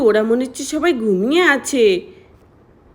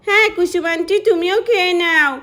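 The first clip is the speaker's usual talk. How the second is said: put-on higher child voice; 5 semitones higher than usual. Cousin child calls Priya.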